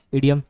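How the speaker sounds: "इडियम" short i, as in idiot; correct pronunciation. Shown as a demonstration. Teacher repeats the right sound for students. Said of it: "उसका सही pronunciation क्या है".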